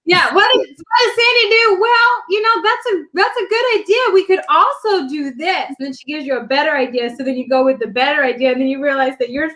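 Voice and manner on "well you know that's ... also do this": high, diplomatic friend impression; imitated nice tactfulness. Imitating Sandy politely steering her to a better idea, tactful. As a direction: put on a higher, sweetly tactful voice. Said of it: "it nicely".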